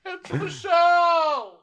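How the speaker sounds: high, erratic put-on voice; Ramona impression. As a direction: rattle it off high, jumping in pitch. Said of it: "And Ramona's like".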